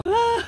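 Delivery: high startled yelp; short scream. Real, not acted. Rider on the coaster, short high scream. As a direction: yelp in real fright.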